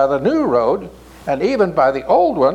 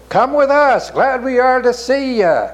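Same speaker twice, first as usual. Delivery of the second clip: cheery invitation; 6 semitones higher than usual. A narrator's reading. Merchants greet Even gladly.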